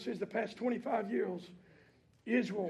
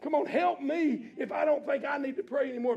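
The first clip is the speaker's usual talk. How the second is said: fervent preaching; 4 semitones higher, 6 dB louder than usual. Real, not acted. Preacher rises in fervor.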